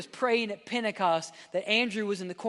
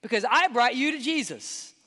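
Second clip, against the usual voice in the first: mock accusing, pitched higher; hammed-up finger-pointing complaint; pointed accusation; 5 semitones higher, 4 dB louder than usual. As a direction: act out a grudge, demanding what's owed. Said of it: "point his finger at Peter and say".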